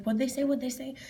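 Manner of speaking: anxious asking. Retold or imitated. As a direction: ask urgently, as if you missed the announcement. Retold anxious asking after announcement.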